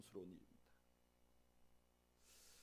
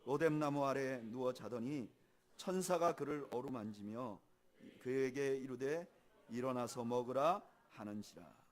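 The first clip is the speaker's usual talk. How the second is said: scripture reading; 4 dB louder than usual. Acted.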